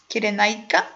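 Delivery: Kyrenaika said as kee-deh-NYE-ka with a questioning Greek lilt; Kyrenaika, Greek accent, rising at the end. Shown as a demonstration. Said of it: "let me put my best Greek accent".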